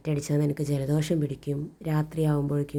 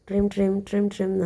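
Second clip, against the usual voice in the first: spoken ring sound; 4 semitones higher than usual. Shown as a demonstration. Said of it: "എന്നാണ് നമ്മൾ പറയുന്നത്".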